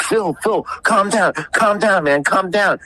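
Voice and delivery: calming him. Retold or imitated. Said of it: "It's like".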